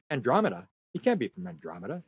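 dropped low and quiet, flatly unconvinced; publisher's doubtful voice. Retold or imitated. Publisher doubts the Andromeda claim, low and hushed. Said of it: "So the publisher said".

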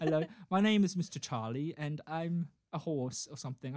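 put-on British self-introduction; lightly mock a British gent; British accent. Shown as a demonstration. Podcaster pretends to be the dream man, playful British accent. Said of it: "sounded a bit more like this".

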